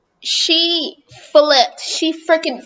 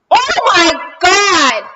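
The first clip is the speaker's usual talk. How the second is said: startled; 4 semitones higher, 4 dB louder, much slower than usual. Real, not acted. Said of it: "That was so scary".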